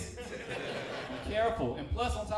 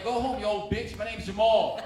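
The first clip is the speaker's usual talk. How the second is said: mock yell; 4 semitones higher, 10 dB louder than usual. Yelling back at old lady.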